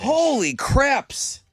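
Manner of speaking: high, slow stunned exclaim; disgusted laughter. Real, not acted. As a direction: gasp it out slowly. Reacting to gory story.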